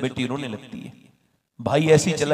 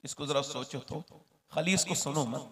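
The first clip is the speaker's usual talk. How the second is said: much softer, coaxing the listeners; hushed reflection; 5 dB quieter than usual. Real, not acted. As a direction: draw them in quietly. Soft reflective aside to listeners.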